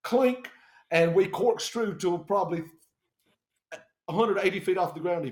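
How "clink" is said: short, high, loud clink; imitated clink. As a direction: pop out one sudden clink. Imitates the pilot's sudden action.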